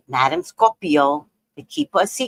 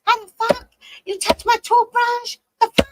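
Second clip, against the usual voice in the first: outraged; 11 semitones higher than usual. Retold or imitated. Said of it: "Oh, I broke loose".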